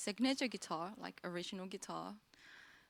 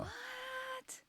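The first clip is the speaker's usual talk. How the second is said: high startled what; surprised squeak; 5 dB quieter than usual. Real, not acted. Startled reaction.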